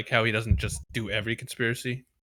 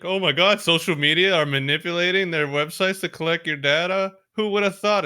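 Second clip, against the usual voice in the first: sarcastic mock outrage; 5 semitones higher, 4 dB louder than usual. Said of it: "it's like".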